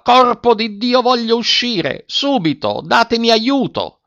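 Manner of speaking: very high, frantic demand; enraged trapped man's high cry; furious yell. A narrator's reading.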